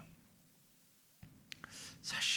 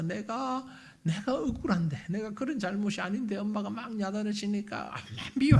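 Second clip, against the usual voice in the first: mildly voiced aggrieved child; mock a child protesting to mom, without real shouting; imitated protesting child. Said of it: "고함 지르는 것과 똑같아요".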